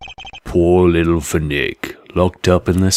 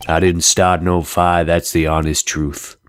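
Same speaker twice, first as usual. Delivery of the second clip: put-on southern accent. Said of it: "sort of a southern kind of accent".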